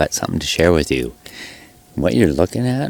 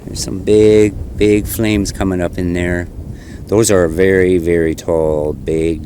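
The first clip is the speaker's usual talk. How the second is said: shouting over wind; 5 dB louder than usual. Real, not acted. Filming wildfire in strong wind.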